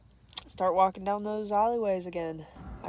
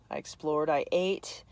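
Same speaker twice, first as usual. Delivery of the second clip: whispered aside; hushed little confession; 2 semitones lower than usual. Real, not acted. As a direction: drop to a whisper.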